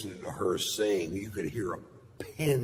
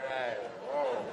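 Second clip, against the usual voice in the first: surprised; 4 semitones higher, 4 dB quieter than usual. Retold or imitated. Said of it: "I'm like".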